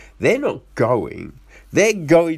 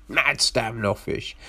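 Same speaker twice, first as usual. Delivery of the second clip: "Mad standoffish" repeated in a soft unvoiced whisper; 3 semitones lower, 6 dB quieter than usual. Shown as a demonstration. Repeating the local's attitude under his breath, whispering.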